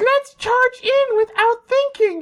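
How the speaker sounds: grating, irritating voice, pitched way up. Mocking a Clone Wars character, doing an annoying Ahsoka voice. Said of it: "has the most annoying voice in the world".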